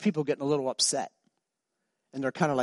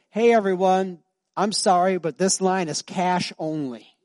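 suggested announcement; 4 semitones higher, 5 dB louder than usual. Retold or imitated. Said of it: "why don't you just announce to the whole line".

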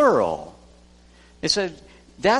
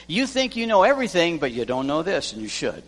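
scolding; faster than usual. Retold or imitated. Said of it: "ten times he says".

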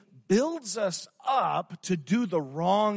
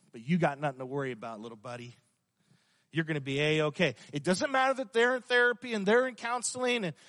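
soothing tempter. Acted. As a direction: lull him into false comfort. Preacher voicing Satan's lull.

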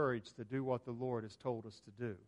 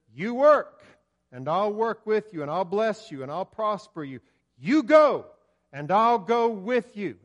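fervent preaching; 5 semitones higher, 8 dB louder than usual. Acted. Preacher voicing God promising His people, loud fervent.

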